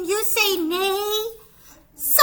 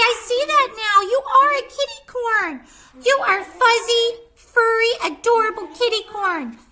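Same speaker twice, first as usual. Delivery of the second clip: delighted; 3 semitones higher, 5 dB louder, faster than usual. Acted. Kitty delighted by kitty corn.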